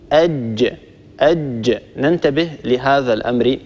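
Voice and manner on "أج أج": أج with a firm stopped j and short release; أج said as ajj with a slight bounce; correct jim. Shown as a demonstration. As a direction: close hard on the ج of أج. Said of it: "الصواب".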